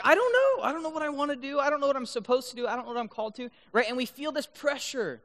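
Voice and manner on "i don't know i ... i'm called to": put-on high-pitched, tumbling teenage fluster; mock overwhelmed. Recalling high school pressure about his calling, mock overwhelmed. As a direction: start in a high wail, then rattle on.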